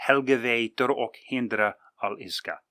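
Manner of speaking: put-on Helgave tor ok hindra al iska recited as Old Norse; Old Norse phrase. Shown as a demonstration. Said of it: "And that is".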